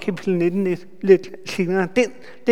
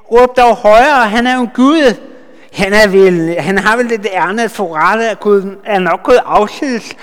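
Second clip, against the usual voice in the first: mocking taunt; 4 dB louder than usual. Elijah taunting Baal's prophets, loud and mocking. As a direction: taunt them, call out in mockery. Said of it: "Elias gik til at håne dem og sagde".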